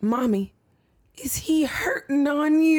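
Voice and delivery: put-on high, innocent little girl asking; lightly voiced little daughter; child voice. Daughter walking in on parents, high child voice.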